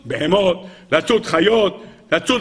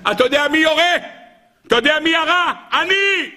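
mocking boast; 9 semitones higher than usual. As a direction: taunt him from the tree. Hunter in tree mocks.

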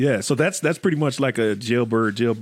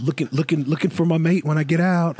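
hammed-up dating ad voice; 4 semitones higher than usual. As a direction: sell yourself like a cheesy personal ad. Mock prisoner dating profile.

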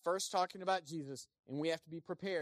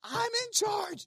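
very high, slow mocking whine; mock pompous boss; 5 dB louder, much slower than usual. Preacher mocking the Pharisees, very high and slow. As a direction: parody a insecure tyrant. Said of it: "That's what they're doing".

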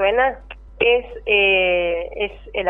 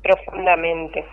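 poem reading. Acted. Poem read aloud on air.

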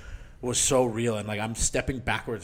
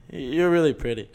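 laughing dazed compliment; 3 semitones higher, 4 dB louder than usual. Retold or imitated. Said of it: "And he just goes".

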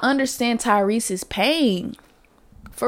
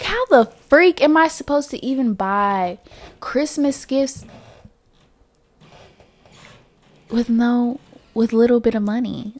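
retold despair; 3 semitones higher than usual. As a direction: plead with disbelief. Retold despair checking account.

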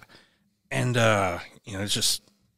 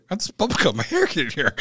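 quick, higher-pitched imitation of a puzzled mom; mom's questioning; 5 semitones higher, 4 dB louder, faster than usual. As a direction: lightly voice a mother asking sharply. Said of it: "my mom's like".

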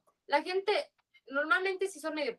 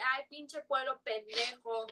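slow, sneering mock chilango, a bit softer; mocking snobbish tourist; 6 dB quieter, slower than usual. Mocking how chilangos talk about Yucatán, slow and snobbish. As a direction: drawl it out like you look down on everyone. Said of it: "con este aire de superioridad".

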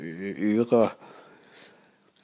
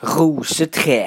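lively naming; 6 semitones higher, 6 dB louder than usual. Real, not acted. Naming trees in garden.

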